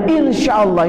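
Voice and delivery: imitating an empty insya Allah; a hint of a hollow polite yes; mock polite promise. Shown as a demonstration. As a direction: say it like a promise you won't keep. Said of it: "Kasih begini tangannya dah".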